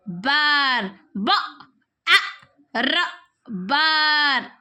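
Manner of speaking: teacher sounding out र आ ट then रैट; segmented phonics drill, sounds then whole word; phonics blending. Shown as a demonstration. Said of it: "आर का phonic sound".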